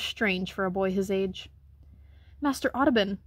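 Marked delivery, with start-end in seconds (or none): 2.4-3.2 scolding. Acted. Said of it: "she scolded".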